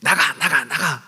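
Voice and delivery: mild mock shout, driving something out; imitated yelling. Elderly mother going room to room telling it to leave, mild mock yelling. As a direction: repeat it as a lightly acted order to leave. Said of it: "소리를 지르고 다니셨대요".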